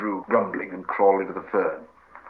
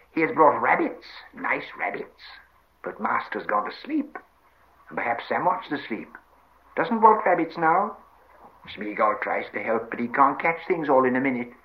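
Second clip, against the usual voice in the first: creature voice swinging high; sulky Gollum; 4 semitones higher than usual. Acted. Gollum complains that his rabbits are unwanted, sulky. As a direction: play Gollum, eager then put out.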